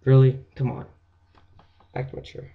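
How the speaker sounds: loud disbelieving "really?"; exasperated. Retold or imitated. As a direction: call out a friend's immaturity. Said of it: "you look at him like this".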